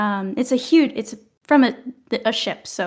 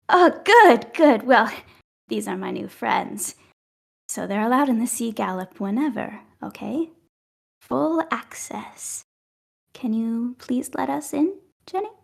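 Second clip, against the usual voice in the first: elf to lookout. Acted. Elf addresses coconut Jenny.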